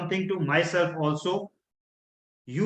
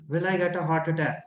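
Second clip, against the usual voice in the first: fearful; faster than usual. Shown as a demonstration. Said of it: "See the tonality".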